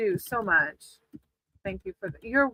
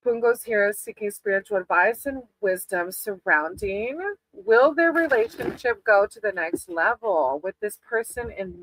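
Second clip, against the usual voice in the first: invocation; 2 semitones lower than usual. Acted. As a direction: call on the spirit team calmly. Invokes spirit guides before reading.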